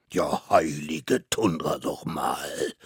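slow, drawn-out outburst; exasperated judge. Acted. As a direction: mammoth judge losing patience, slowly. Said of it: "platzte allmählich der Kragen". (langsam platzt der Kragen)

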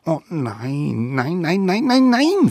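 building eager denials; eager promising. A narrator's reading. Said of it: "versprachen die kleinen Wilden".

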